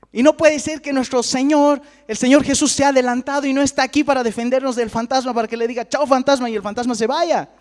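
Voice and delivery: high-pitched, hammed-up pleading; acted alarm. Frightened disciples wanting Jesus to chase the ghost off, acted alarm. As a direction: keep up the disciples' agitated wail.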